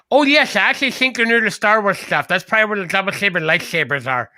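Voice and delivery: speaking with a lisp; lisping store clerk. Retold or imitated. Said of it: "that talks with a lisp".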